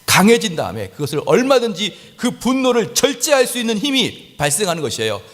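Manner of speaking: high-pitched, forceful sermon delivery; impassioned preaching. Real, not acted. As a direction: preach it with mounting fervour. (높은 목소리로 힘주어 설교하듯)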